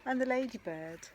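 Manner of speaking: lively picture-book storytelling; sing-song read-aloud rhythm; reading to children. A narrator's reading. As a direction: read it with bounce for little ones.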